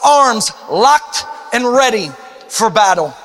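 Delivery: fervent rallying preacher; rally the church to battle; rally speech. Acted.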